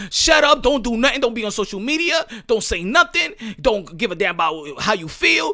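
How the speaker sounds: high, loud barked orders; mock bossy fans. Voicing fans bossing Ryan Garcia around, high and loud. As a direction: order him around like an owner.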